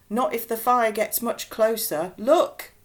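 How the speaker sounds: urgent dad, rising to a shout. A narrator's reading. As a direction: warn him urgently.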